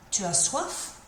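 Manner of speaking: teacher's model question, "soif" going up; rising intonation. Shown as a demonstration. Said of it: "put my intonation up at the end".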